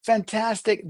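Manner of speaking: high, drawn-out easygoing drawl; hey-man cool, sing-song and high; laid-back cool. Shown as a demonstration. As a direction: play it super chilled, stretching each phrase. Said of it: "The same words can be spoken differently".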